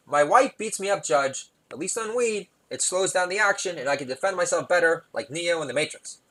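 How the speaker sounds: lightly voiced pleading defendant; a touch of put-on whining defence; stoner executive in court. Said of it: "Out of work music executive".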